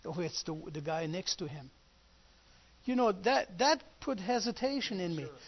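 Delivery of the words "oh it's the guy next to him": mock female whisper, much quieter and lower. Retelling what a lady nearby whispered to him: imitating a lady whispering. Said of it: "she was whispering".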